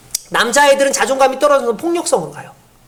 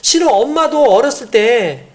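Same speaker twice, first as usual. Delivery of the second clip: empathetic mother; 2 semitones higher than usual. Shown as a demonstration. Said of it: "그 얘기를 해줘요".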